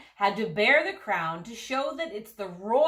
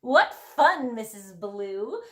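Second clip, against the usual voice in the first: excited cry; 4 dB louder than usual. Acted. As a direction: cry out with delight. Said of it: "cried the princesses".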